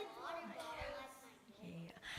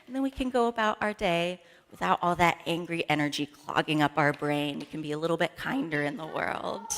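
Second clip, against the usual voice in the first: softer, settled calm after the shouting; 5 dB quieter than usual. Shown as a demonstration. Leader settles the kids after the shouting, calm and soft. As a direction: bring them down gently. Calming down after anger demo.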